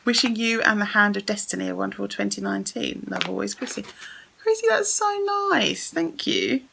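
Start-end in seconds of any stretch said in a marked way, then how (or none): 4.4-6.6 touched. Real, not acted. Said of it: "getting all emotional".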